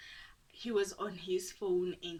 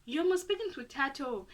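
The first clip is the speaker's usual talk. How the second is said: friend voice; 7 semitones higher, 5 dB louder than usual. Retold or imitated. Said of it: "It's like".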